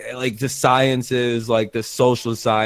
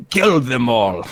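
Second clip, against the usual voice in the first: put-on Israeli accent; slower than usual. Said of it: "shitty little Israeli accent".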